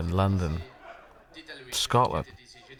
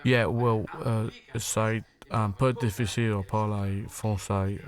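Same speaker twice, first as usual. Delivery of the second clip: French in a lightly flattened London accent, slow; flattened English accent; slower than usual. Shown as a demonstration. Comedian contrasts with a light flattened London accent on French. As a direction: drawl the French like a flat London bloke. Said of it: "a sort of flattened".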